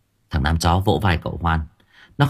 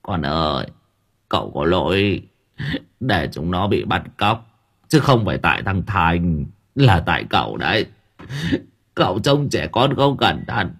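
tearful; 2 semitones lower than usual. Acted. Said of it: "nước mắt ẩn ẩn mếu máo".

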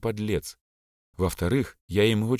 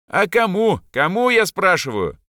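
much higher and louder, still shouting; angry yell; 10 semitones higher, 6 dB louder than usual. Acted. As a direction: keep hammering the question in fury. Enraged boy demands an answer.

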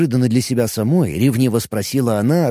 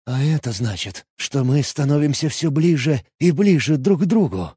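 with a breath in the voice; breathy. Acted. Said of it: "с придыханием в голосе".

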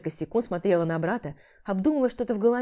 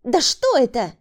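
startled, raised voice; alarmed woman; 4 semitones higher, 7 dB louder than usual. A narrator's reading. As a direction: she can't believe what she sees. Woman panics at the tracker. (испуганный возглас)

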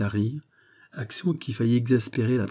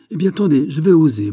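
high, loud, defiant outburst; exasperated; 7 semitones higher, 8 dB louder than usual. A narrator's reading. Princess daring to say it herself, exasperated. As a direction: take up the dare, exasperated. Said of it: "dit madame exaspérée".

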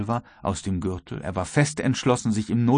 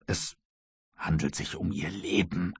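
suddenly hushed and soft; grave warning; 3 semitones lower, 9 dB quieter than usual. A narrator's reading. Croxton warns his master of danger, hushed. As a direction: drop the voice for a secret warning.

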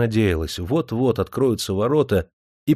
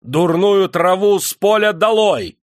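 much higher and louder, slow; ruthless; 10 semitones higher, 6 dB louder, slower than usual. A narrator's reading. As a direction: pass a merciless verdict. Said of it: "безжалостно сказал Никита". (безжалостный приговор)

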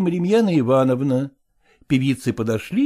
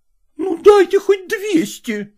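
much higher, slow desperate cry; exclaimed; 3 dB louder, slower than usual. A narrator's reading. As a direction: burst out high and drawn out. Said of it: "воскликнула".

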